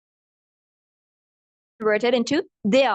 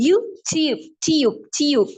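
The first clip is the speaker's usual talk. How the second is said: American demo, syllable repeated on a falling tune; American accent; much slower than usual. Shown as a demonstration. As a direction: model YouTube in an American accent. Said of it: "American में इसको कैसे पढ़ते हैं". (अमेरिकी लहजे में उच्चारण)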